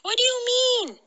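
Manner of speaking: very high character voice; Ilyas. A narrator's reading. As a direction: pitch the question way up, then let it fall. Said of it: "asked Ilyas".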